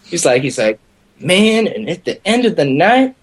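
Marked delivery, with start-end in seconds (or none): 1.2-3.2 put-on bragging drunk storyteller. Drunk guest boasting to strangers about his night, pitched-up brag. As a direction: imitate a boastful partier, pitched up.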